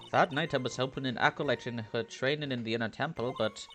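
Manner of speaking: lightly voiced Irish nun; mildly put-on Irish accent; Irish-accented nun witness. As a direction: testify with an attempted Irish lilt.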